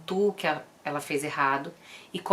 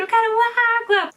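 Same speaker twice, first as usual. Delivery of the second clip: much higher and louder mock scream of a toddler; imitated child yell; 9 dB louder than usual. Mother imitating her toddler screaming for water, loud mock yell. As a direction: yell it like a child throwing a fit. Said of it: "fica gritando".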